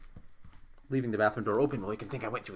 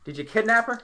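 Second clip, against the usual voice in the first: high, raised-voice interrogation; loud accusing demand; 9 semitones higher, 7 dB louder, slower than usual. Acted. Player asking Pietro about the woman, loud accusation. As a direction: press the villain, loud and pitched up.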